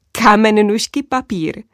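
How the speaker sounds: a hint of you can't be serious; incredulous. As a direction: princess repeating the knight's words in mild disbelief. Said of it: "zeptala jsem se nevěřícně".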